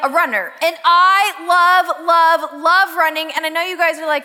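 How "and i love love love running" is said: gushing love. Real, not acted. Gushing about loving running.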